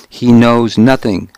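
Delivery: a touch of anger; restrained, mildly angry retort. Acted. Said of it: "I said angrily".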